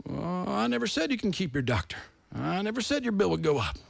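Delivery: a lightly voiced president brushing off the claim; president impression. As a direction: mimic a politician's smooth denial, only slightly put on. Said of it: "Well, Mister President".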